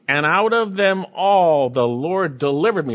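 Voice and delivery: "all" stretched and punched, as an emphatic declaration. Acted. Preacher voicing Paul's testimony of deliverance, emphatic. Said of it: "Paul's saying it emphatically".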